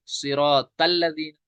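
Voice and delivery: सिरातल said with a light ordinary ता; the mistaken light ता in सिरातल; wrong plain ta. Shown as a demonstration. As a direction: mistake people make. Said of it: "तल लज़ीना नहीं".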